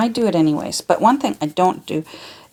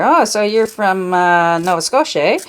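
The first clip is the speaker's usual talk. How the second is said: louder, playful Canadian accent; 5 dB louder than usual. Shown as a demonstration. Host mimics Canadians recognizing each other, hammed-up Canadian accent. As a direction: ham up the Canadian accent a little, landing on "eh?". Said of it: "we usually recognize each other".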